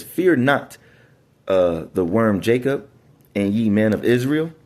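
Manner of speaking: measured, solemn bible reading; scripture reading. Acted. Preacher reading to his congregation, solemn and measured. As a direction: read the verse out like a preacher.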